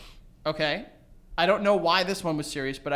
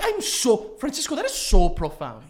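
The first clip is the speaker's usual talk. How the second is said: lightly put-on friend's accent, louder; Sly's accent; 4 semitones higher, 5 dB louder than usual. Showing Joey how friend Sly sounds, a hint of accent. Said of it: "Sylvester has this accent where he's".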